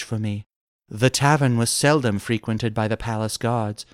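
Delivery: softly voiced captive maiden; damsel recounting. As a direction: tell your tale as a rescued damsel, lightly played. Damsel explains her capture.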